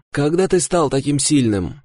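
startled hero; astonished. A narrator's reading. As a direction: marvel at his strength. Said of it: "поразился я".

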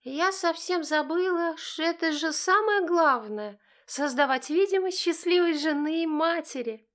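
put-on scornful teenage sarcasm; sarcastic. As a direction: sneer at the happy-family act. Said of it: "продолжает меж тем Олька".

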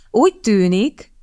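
slow, mildly vexed; a touch of irritation, drawn out; annoyed. A narrator's reading. Host finds intruders in his house, mildly annoyed. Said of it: "mérgelődött Selburne".

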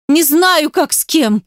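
high, loud desperate shout. A narrator's reading. Girl screaming at Ruslan, high loud shout. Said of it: "закричала она".

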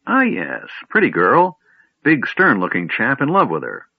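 put-on high, doddering old wizard; lightly voiced fussy old man.

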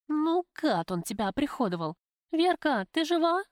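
laut und hoch rufen; besorgter Ruf. Acted. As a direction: erschrocken nach der Freundin rufen. Freundin findet verprügelte Vera.

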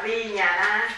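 Vijnana with ñ said as Vietnamese "nh"; Pali pronunciation. Shown as a demonstration. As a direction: pronounce the n in Vijnana like "nhờ". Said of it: "chữ N dấu ngã thì thầy dạy là đọc chữ nhờ".

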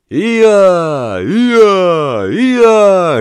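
high, loud "Иа, иа, иа" bray; hee-haw like a donkey, full voice. A narrator's reading. Bargeman brays to mock the travellers. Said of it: "ревел судовщик".

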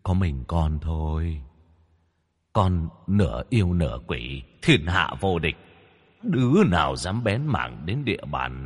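lightly voiced cocky spirit, then wheedling; a hint of a bragging demon begging; boastful ghost. A narrator's reading. Ghost brags then begs the master, lightly voiced.

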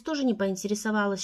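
ordinary delivery

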